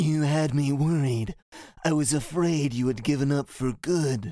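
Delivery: breathy villain voice, air pushed through. Retelling a Kingdom Hearts scene, the speaker voices Xaldin's line: breathy Xaldin voice. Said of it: "His voice is so breathy, I can't do it right".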